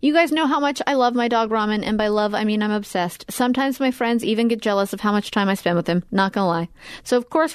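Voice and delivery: scripted, personal-testimonial sponsor read; podcast ad read. Real, not acted. Host selling dog food to listeners, podcast ad read. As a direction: read the sponsor copy as a friendly endorsement.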